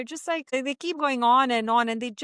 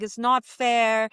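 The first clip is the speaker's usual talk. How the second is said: slow, louder mock child's whine; whining kid; 5 dB louder, slower than usual. Mother imitating her child complaining about the bed, mock whine. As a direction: imitate a sulky child, stretched out. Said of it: "started crying and whining".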